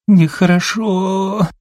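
high, slow, drawn-out sobbing cry; tearful wail. A narrator's reading. Daughter wails through tears at her mother, high and slow. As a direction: stretch it into a weepy wail.

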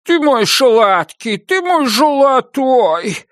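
put-on slow, high cooing to a baby; cutesy baby talk. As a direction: coo sweetly over the baby. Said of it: "Он засюсюкал над Антоном".

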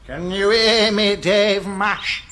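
slow, drawn-out ghostly call; spooky ghost voice. Acted. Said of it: "doing his spooky ghouly voice".

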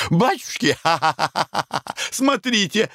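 high, laughing surprise turning to a slow jeer; cackle, then jeer her; laughing exclamation. Acted. Konurin spots yesterday's lady and jeers at her, high laughing. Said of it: "воскликнул вдруг Конурин".

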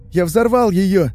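high, loud anguished confession; despairing wail; breaking into sobs. A narrator's reading. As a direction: cry it out on the edge of weeping. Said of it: "Старший Лазукин срывается в рыдание".

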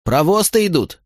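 high, urgent frightened cry; alarmed warning. A narrator's reading. Frightened voice warning the tavern of guards, alarmed cry. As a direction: shout the warning in panic.

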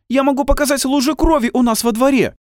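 high, loud indignant outburst; choking with outrage; breathless outrage. A narrator's reading. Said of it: "Она задыхалась от возмущения". (высоко и громко, задыхаясь от возмущения)

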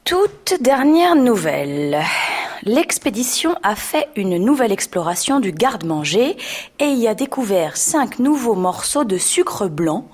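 Alice reading the paper aloud to the wasp; reading the news. A narrator's reading. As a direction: read it out like a news bulletin. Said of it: "étala le journal ... et commença".

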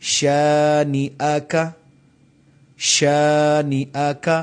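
شَانِئَكَ with a crisp ش; clear sheen. Shown as a demonstration. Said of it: "شین میں آواز واضح آنی چاہیے".

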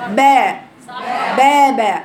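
«با» والصوت هابط لأسفل; أنزل الفك مع «با»; با بفك نازل. Shown as a demonstration. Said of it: "لأن نزلت با". («با» خاطئة بصوت نازل)

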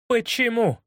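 high, eager question; tearful joy. A narrator's reading. Watson asking through tears of joy. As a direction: burst out hopeful through happy tears. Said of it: "заливаясь слезами радости".

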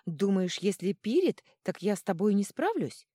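high, loud challenge of a little god; indignant screech. A narrator's reading. Little god threatening the troll, screeching. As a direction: squeal defiantly, high and loud. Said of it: "заверещал Божок".

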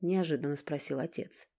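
ordinary delivery, nothing marked

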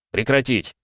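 icy, firm stop order; cold command. Acted. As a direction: cut him off coldly. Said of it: "холодно сказал Репнин".

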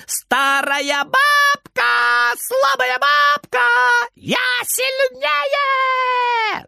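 very high, very slow mocking shout; shrieking taunt. A narrator's reading. Boy screeches taunts at granny, very high and slow. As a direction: screech it as high as you can. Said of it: "ликует он на самой высокой ноте".

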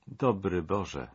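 slow, understated moan; moaned prayer. Acted. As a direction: let the words sink out in despair. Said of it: "jęknęła caryca". (ciche, powolne jęknięcie)

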